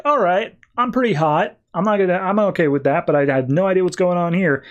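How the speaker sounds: retold amused self-approval, easing down; pleased self-appraisal. Batman sizes himself up in a mirror, mildly pleased and baffled.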